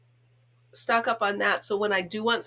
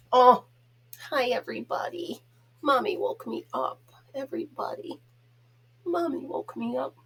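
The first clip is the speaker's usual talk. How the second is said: voicing the dog; 4 semitones higher than usual. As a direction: speak for the sleepy dog in a pouty voice. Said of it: "I know I'm a goof with him".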